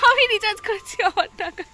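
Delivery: high, loud bragging sing-song; teasing boast. Pretend. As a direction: rub it in playfully. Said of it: "আমি regular বলতে থাকবো".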